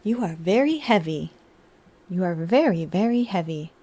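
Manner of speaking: robot voice. Pretend. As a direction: drone it like a butler robot. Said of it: "repeat in the robot voice".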